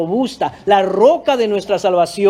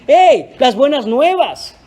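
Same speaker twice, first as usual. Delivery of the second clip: raised, eager calling out of good news; joyful Mary. Acted. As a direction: run in shouting the news. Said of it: "ella fue corriendo a decir".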